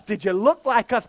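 normal talking voice

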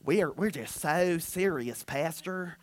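soft, low Northern churchgoer impression; mock Northern accent. Pastor mimics Northerners excusing themselves to him, mock Northern accent. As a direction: imitate a reserved Northerner's accent. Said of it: "that's not a northern voice".

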